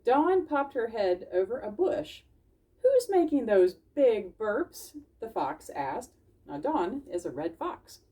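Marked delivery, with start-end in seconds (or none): 2.8-4.9 slow, loud curious fox. Acted. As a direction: ask slowly like a wary fox. Fox asks in story.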